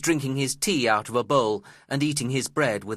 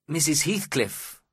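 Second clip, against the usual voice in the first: slow, pleading call, pitched higher; narrated plea in a higher voice; begging; 6 semitones higher than usual. A narrator's reading. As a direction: appeal to her, drawn out. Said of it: "I begged".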